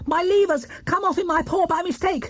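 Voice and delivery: high small bear voice, worried; upset Paddington. A narrator's reading. Paddington explaining the broken brake to the spectator.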